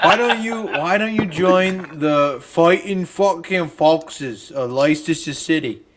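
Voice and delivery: put-on over-egged British accent, slow and drawn out; mock British accent, a touch overdone; hammed-up British accent. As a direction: lay the British accent on thick, slowly. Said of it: "I kinda over-embellish my British accent".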